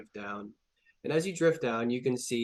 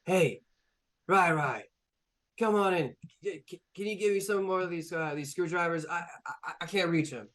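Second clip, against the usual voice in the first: high, pleading little robot voice; high eager little helper pleading; whiny little robot; 5 semitones higher than usual. Acted. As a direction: beg for the screwdrivers like a helpless small bot. GM voices small robot asking help.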